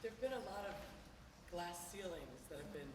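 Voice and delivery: rough, worn-out voice; hoarse. Real, not acted. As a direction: speak through a hoarse throat. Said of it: "sorry, my voice is very hoarse".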